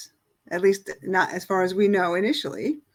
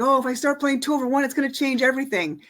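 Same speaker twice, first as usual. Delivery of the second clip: higher, rushed imitation of worry; lightly fretting, quick and higher-pitched; mock concern; 4 semitones higher, faster than usual. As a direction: mimic a worried player fretting quickly. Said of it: "some people get all concerned".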